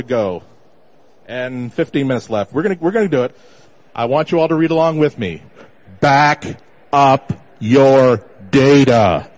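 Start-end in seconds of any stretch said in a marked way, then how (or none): 6.0-9.3 slow, deep booming voice; booming slow command. Acted. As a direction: boom it out like a voice from above. Booming slogan to audience.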